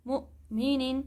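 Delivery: مؤمنین with a clear glottal stop after مؤ; the correct stopped hamza; correct reading. Shown as a demonstration. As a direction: recite مؤمنین with the hamza caught. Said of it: "اس کو پڑھیں گے".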